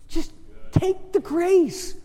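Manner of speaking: high, slow, drawn-out plea; forceful appeal. Real, not acted. Preacher urging congregation to accept, forceful appeal. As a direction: raise the pitch and stretch each word.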